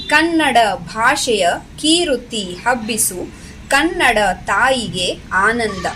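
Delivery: measured, rhythmic verse reading; lilting classroom poem reading; poem recitation. Shown as a demonstration. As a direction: recite each phrase clearly for pupils to follow.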